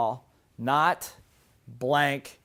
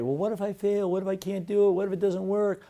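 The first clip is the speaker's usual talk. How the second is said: slightly higher worried inner voice; mock afraid; 3 semitones higher than usual. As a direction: fret through a list of doubts. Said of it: "but being afraid".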